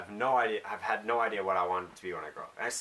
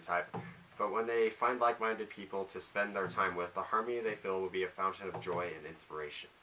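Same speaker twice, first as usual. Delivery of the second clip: reading aloud. Shown as a demonstration.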